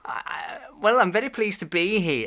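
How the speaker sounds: put-on lightly high, polite old gentleman voice; a hint of a fussy Alan Bennett; Alan Bennett impression. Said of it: "why are you doing my accent there".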